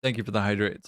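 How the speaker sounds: dry, sarcastic thank-you; deadpan sarcastic thanks. Acted. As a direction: thank them with a roll of the eyes.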